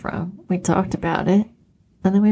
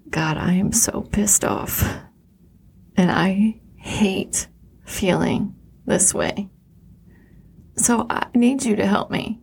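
begging prayer; 3 semitones higher than usual. Shown as a demonstration. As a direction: plead for help, pitch climbing as you go. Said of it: "I'm more begging for help".

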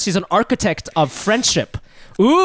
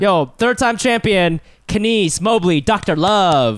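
announcer voice. Acted. Announces guest.

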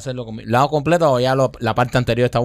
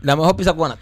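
robot voice; 4 semitones higher, faster than usual. Acted. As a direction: speak like a talking machine. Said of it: "Ese sonido está bueno".

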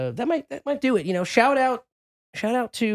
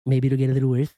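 cable guy voice; 4 semitones lower than usual. Pretend. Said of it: "It's the cable guy".

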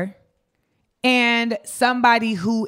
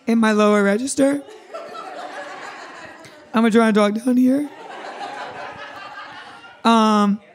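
hoarse, cracking voice; lost voice; 2 semitones higher than usual. Real, not acted. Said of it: "I think I just lost my voice".

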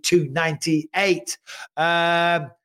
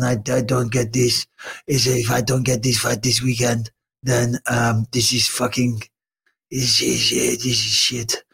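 put-on lightly done Georgian accent in broken English; a mild Georgian accent, annoyed and grumbling; Merab's Georgian accent; 3 semitones lower than usual. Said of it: "I can't do a Merab accent".

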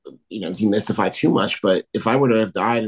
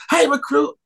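high barked command; drill sergeant yell; 3 dB louder than usual. Retold or imitated. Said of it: "she would yell".

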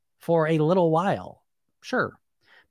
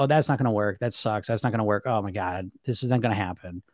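lower, softer gloomy self-talk; catastrophic inner voice; 6 semitones lower, 3 dB quieter than usual. Retold or imitated. Her own inner critic, gloomy and low. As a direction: let the negative voice drag you down. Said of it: "I get that voice where everything's the worst".

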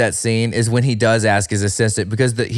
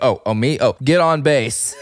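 awkward unsure reply. Retold or imitated. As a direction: caught off guard, fumbling the answer. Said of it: "where he doesn't know to speak".

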